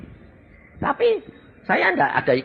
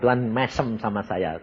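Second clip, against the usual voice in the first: normal talking voice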